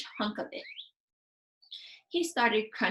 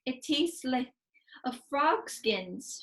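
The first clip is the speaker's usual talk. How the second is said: gasping; 5 semitones higher, slower than usual. Acted. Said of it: "she gasped".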